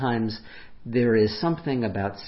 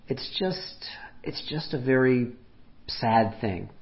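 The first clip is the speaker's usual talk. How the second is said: hushed sad quote; 2 semitones higher than usual. Retold or imitated. Retelling Nadal on the empty French Open, hushed whisper. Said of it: "he didn't say sad like pathetic".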